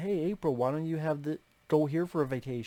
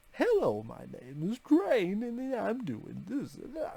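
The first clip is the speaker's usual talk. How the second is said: high, swooping, sing-song character voice, drawn out; 6 semitones higher than usual. Mocking a cartoon character whose voice always annoyed them: imitating Crane's annoying voice. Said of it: "he's always talking like this".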